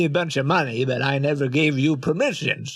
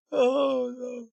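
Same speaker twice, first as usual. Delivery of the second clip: surprised; 10 semitones higher, 4 dB quieter than usual. Real, not acted. Laughing shock at being exposed.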